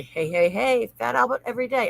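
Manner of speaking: a light Fat Albert hey hey hey; lightly voiced Fat Albert greeting. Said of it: "that came to mind from the".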